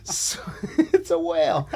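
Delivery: put-on high, slow, laughing Boston accent. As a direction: ham up a thick Boston accent, Jay. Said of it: "tell this entire story in a Boston accent".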